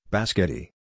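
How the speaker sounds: BASQUETTI said with "ba-SKET-ee" sounds; Basquetti, opening on B with no SP; child's mispronunciation. Retold or imitated. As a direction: say Basquetti as a toddler's slip for spaghetti. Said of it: "was incensed at the pronunciation".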